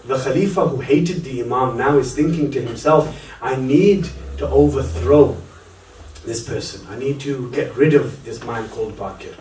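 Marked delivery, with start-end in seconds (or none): 3.4-9.3 brooding private thought. Acted. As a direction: think it through darkly, under your breath. Khalifa's private thought, plotting.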